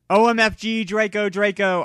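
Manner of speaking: high loud cry of his name; scream. A narrator's reading. Ebony crying out to Draco, screaming high and loud. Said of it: "I screamed".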